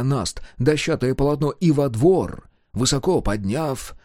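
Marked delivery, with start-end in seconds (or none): none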